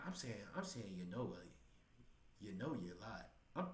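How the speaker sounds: tripping over the words, restarting; stuttering. Real, not acted. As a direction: stammer and restart each phrase. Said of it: "I'm stuttering and shit".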